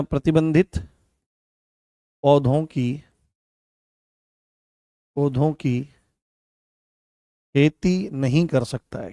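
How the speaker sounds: dictation. Real, not acted. Teacher dictates notes for writing.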